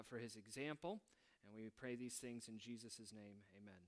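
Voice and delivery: soft, unhurried prayer voice fading toward the amen; bow your head and pray quietly. Acted. Pastor leads a short prayer.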